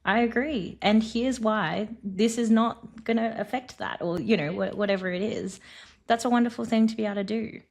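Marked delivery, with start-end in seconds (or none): 0.1-4.0 slow, gentle disagreement, slightly lifted pitch; gentle agreement. Shown as a demonstration. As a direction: take your time and let them down gently. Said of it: "as gently as you possibly can".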